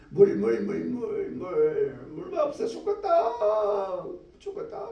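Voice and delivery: a dying man's high thin wail for water; desperate cry for water. Acted. Preacher voicing people at the back crying for water.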